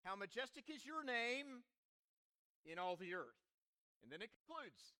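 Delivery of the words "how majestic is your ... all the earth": psalm recited in a connected phrase; psalm refrain. Shown as a demonstration. Preacher quoting the psalm's refrain, recited in one flow. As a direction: recite it as a refrain, falling at the end. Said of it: "refrain of a great song".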